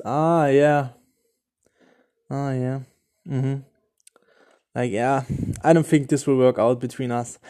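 hammed-up cool indifference; mock arrogant. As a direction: play the bored womanizer tallying his count. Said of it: "Or you can do the total opposite".

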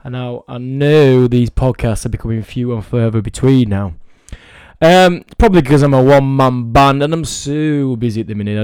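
hamming up the podcast welcome; silly put-on host voice. Host greeting his listeners in a silly mood, hammed-up announcer voice. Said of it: "I don't know why I'm talking like this".

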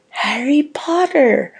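two twins chanting the name in unison, drawn out; chorused. A narrator's reading. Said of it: "chorused the twins".

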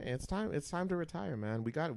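normal talking voice

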